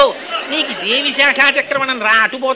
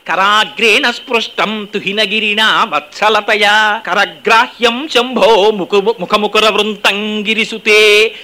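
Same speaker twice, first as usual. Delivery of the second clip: slow chant slowing further at the end; sloka recitation; 2 semitones lower, slower than usual. Acted. Preacher quoting the verse, slow chant. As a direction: draw the final words out.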